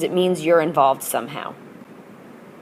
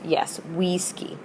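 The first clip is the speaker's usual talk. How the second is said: whispered answer; 10 dB quieter, slower than usual. Shown as a demonstration. Teacher models whispered answer.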